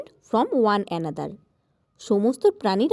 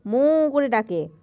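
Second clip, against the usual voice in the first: cow moo; 2 semitones higher, slower than usual. Shown as a demonstration. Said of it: "গরুরা কেমন করে".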